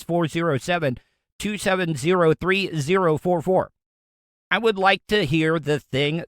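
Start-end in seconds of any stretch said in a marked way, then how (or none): 0.0-3.7 said again in even, careful chunks; number repeated clearly. Shown as a demonstration. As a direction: spell it out so they can write it down. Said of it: "Once again".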